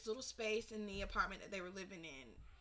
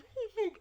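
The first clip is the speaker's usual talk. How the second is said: high, loud mock sobs from dad; imitated crying; 12 semitones higher, 9 dB louder than usual. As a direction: imitate a crying father, pitched up. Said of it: "sitting here crying 'cause he goes".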